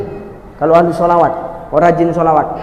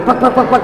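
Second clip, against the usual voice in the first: imitated flapping noise; 2 semitones higher, 3 dB quieter than usual. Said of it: "kata dia".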